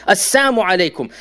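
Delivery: "Assalamu" said as "Assamu" again, no l; mocking greeting without the lam. Shown as a demonstration. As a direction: repeat the sly "Assamu alaikum". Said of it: "without the lam".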